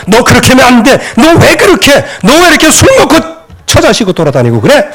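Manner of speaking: high-pitched mock telling-off, easing at the end; parental scolding. Parent to a wandering, drinking child, acted scolding. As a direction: imitate a parent laying into a child.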